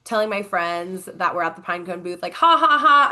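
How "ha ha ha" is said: high, loud spelled-out laugh; mock laugh. Telling friends at the booth in her story, mock laugh. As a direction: push out a big pretend laugh.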